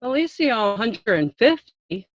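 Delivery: gentle, cooperative answer; soft and nice. Pretend. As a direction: soften right down and work with him. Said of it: "Who noticed an instant change in her voice?".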